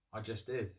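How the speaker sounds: a guilty aside said half to himself; under his breath. Retold or imitated. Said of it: "says under his breath".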